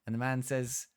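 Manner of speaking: ordinary talk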